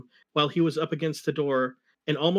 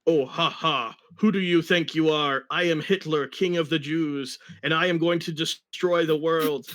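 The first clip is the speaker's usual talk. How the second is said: villain gloating. Acted. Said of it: "said Hitler".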